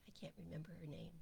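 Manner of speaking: fast whispered aside. Real, not acted. Trying to recall a teacher's name, whispered. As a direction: mutter it as you search memory.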